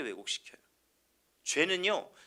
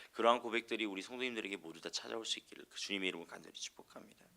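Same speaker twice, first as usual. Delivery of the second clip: whisper; 6 semitones lower, 9 dB quieter, faster than usual. Real, not acted. Whispered blessing over congregation.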